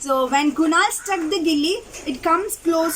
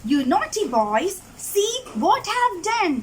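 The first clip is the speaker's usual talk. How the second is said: mock shout; 6 semitones higher than usual. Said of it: "he shouted".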